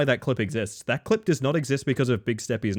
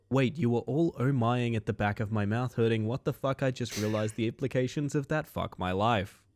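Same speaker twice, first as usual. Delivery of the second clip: softer, flat chat read; reading lowercase style; 5 semitones lower, 6 dB quieter than usual. Shown as a demonstration. Streamer reading a chat message aloud in lowercase style, softly. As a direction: read it quietly, no caps. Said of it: "read this lowercase style".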